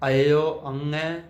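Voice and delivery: ਅੰਗੈ with the nasal ng from the throat, drawn out slowly; slow careful pronunciation. Shown as a demonstration. Teacher repeating ਅੰਗੈ slowly so the sangat can copy. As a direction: model ਅਇਓ ਅੰਗੈ slowly for learners. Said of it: "ਉਹਦਾ ਉਚਾਰਨ ਜਿਹੜਾ ਗਲ 'ਚੋਂ ਹੁੰਦਾ".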